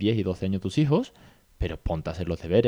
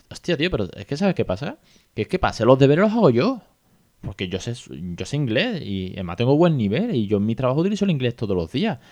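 mild mock annoyance; 2 semitones higher than usual. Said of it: "lo hacía muy mosqueado".

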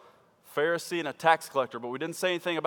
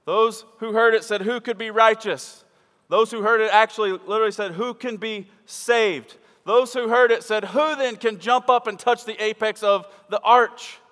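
mounting preacher's shout; 6 semitones higher, 8 dB louder than usual. Acted. Preacher escalating repeated question.

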